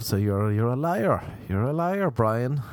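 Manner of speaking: mock accusation. Friends calling out Brian's fake drunkenness.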